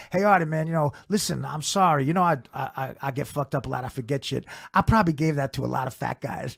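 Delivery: lightly imitated stoned apology; fucked-up Mitch Hedberg. Mitch apologizes to Artie, lightly imitated as wasted. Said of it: "he's all fucked up".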